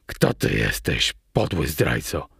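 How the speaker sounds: low, venomous demand; low, tight, hostile character voice; hissing through teeth. A narrator's reading. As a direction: hiss the accusation through clenched teeth. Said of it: "syknął przez zęby".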